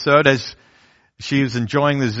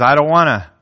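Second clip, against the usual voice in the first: higher, louder sulky protest; the heart refusing God's way, sulky; childish refusal; 4 semitones higher, 3 dB louder than usual. Retold or imitated. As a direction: dig in like a stubborn child. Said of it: "that desire that says".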